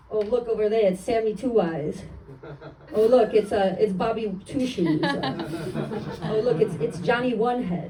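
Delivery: lightly voiced wise guy, smirking; a hint of a smirking mobster; vague mobster. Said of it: "an impression of a vague mobster".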